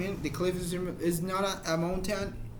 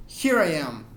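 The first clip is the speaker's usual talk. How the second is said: "Here I am" with HERE pushed louder; emphasis on location; 2 semitones lower, 6 dB louder than usual. Shown as a demonstration. Teacher showing where they are, stressing "Here" in "Here I am". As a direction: lean hard on "Here", then let "I am" fall. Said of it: "I am making emphasis on my location".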